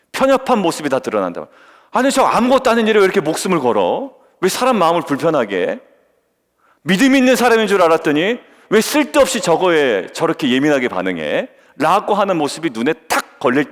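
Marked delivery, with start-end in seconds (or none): 1.9-11.5 mock indignation. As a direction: act out a put-out critic questioning someone. Acting out an annoyed churchgoer's judgement.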